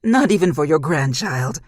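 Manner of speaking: loud, harsh snarl; loud furious demon snarl. Acted. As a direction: spit it at her in her demon voice. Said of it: "she said with her demon voice".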